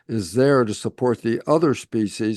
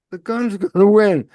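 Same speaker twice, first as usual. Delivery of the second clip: laughing it out, louder and higher; 7 semitones higher, 6 dB louder than usual. Real, not acted. To the listener about the gun winning, laughing. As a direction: chuckle through the punchline. Laughing at his own example.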